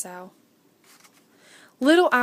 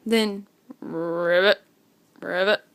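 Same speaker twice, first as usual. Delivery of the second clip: frog croak; 4 semitones lower than usual. A narrator's reading. Narrator croaks the frog in the night. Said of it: "a frog singing".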